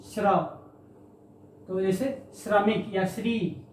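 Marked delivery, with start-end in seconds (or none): 0.0-0.4 श्र said as one tight shr cluster; pronouncing shr. Shown as a demonstration. Teacher shows students how श्र sounds. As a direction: demonstrate श्र with shr, not sr. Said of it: "श्र का उच्चारण हम बताना भूल गए थे".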